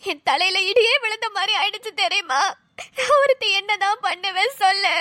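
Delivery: tearful, helpless lament; wife crying in despair. Acted. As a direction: sob out the helplessness.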